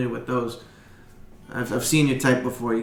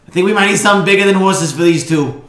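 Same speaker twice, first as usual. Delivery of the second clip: louder, higher goblin voice; Boblin; 4 semitones higher, 8 dB louder than usual. Acted. Boblin asking the stable hand for a wagon, higher and louder. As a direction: pitch Boblin up and push it out eagerly. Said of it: "he goes".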